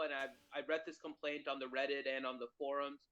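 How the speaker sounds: choppy call audio with dropouts; radio breaking up. Real, not acted. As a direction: voice cutting in and out over a bad connection. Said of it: "You're breaking up again".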